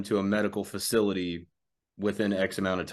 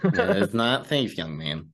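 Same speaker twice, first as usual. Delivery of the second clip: stern nun; slower than usual. Acted. Prim instructor scolding.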